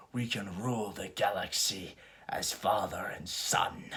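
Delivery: whispered temptation. Retold or imitated. Vader quoted tempting Luke.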